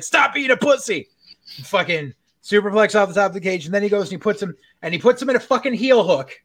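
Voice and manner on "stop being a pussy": mock tough guy. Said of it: "And he's like".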